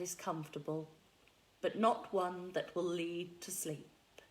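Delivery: calm hypnotist pacing with long pauses; hypno voice. Acted. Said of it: "put on, uh, my hypno voice".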